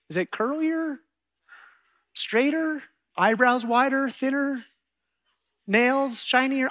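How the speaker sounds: high, frantic stabs at an answer; flustered husband scrambling for the right answer; panicked guessing. Retold or imitated. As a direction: grasp at anything to escape the trap. Husband desperately guessing what changed.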